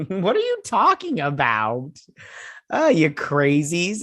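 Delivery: slow, laughing through the words; amused disbelief. Real, not acted. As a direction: tease the writers while chuckling. Laughing at the show.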